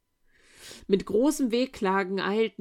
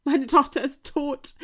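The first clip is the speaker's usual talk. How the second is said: high, loud wail of grief; mother wailing in grief on the floor; wailing lament; 7 semitones higher, 8 dB louder than usual. A narrator's reading. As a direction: wail for the lost daughter.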